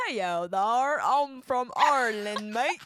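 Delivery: hammed-up, badly faked Irish accent. Player joking at failed accent practice, bad Irish. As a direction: do a terrible mock Irish, stretched and punchy.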